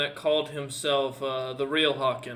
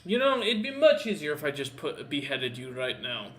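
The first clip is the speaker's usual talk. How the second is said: threatening captor; 4 dB louder than usual. Acted. Captor to prisoner about beheading, mildly threatening.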